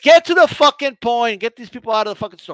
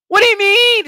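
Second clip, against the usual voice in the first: 1 mock yell; 10 semitones higher, 5 dB louder than usual. Mock customer yelling again.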